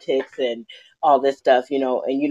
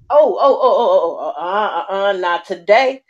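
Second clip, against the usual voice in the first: panicked mother; 2 semitones higher than usual. Retold or imitated. Mother runs outside panicking.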